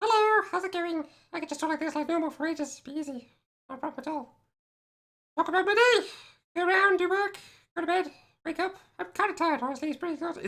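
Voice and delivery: very high-pitched, casual, chatty talking voice. Showing that going high pitched is easy, in a high-pitched voice. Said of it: "if you want me to go high pitched, that's easy".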